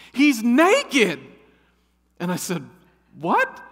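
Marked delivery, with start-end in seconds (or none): 0.1-1.2 shrill high scream of shock. Retold or imitated. Wife spotting a naked man, screaming. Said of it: "I hear my wife scream out". 3.2-3.6 high startled yelp; shocked what. Retold or imitated. Husband hearing wife's warning, shocked and high.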